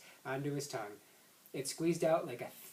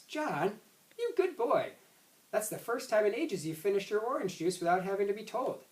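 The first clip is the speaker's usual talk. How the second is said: praising; 5 semitones higher than usual. Acted. Mother praising son.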